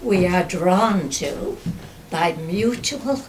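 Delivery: measured poetry reading with long pauses; poem recitation. Acted. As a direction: recite your own verse, pausing after each phrase. Reads own poem aloud.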